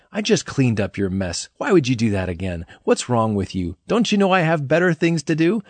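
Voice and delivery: exasperated telling-off, mildly hammed up; imagined fed-up reprimand, lightly acted; mock scolding. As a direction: scold like someone whose patience is running thin. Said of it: "Jesus giving us a good scolding".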